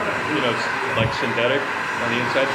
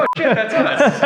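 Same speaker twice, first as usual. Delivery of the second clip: loud, high, cracking up; laughing realisation; 9 dB louder, slower than usual. Retold or imitated. Laughing as he realises the brushes are theirs, loud and high. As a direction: burst out laughing on it.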